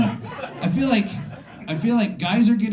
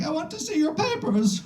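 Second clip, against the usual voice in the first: a hint of a stern German officer, pitched up; mock German officer; 11 semitones higher than usual. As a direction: lightly play a border guard asking for papers. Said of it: "So I was like".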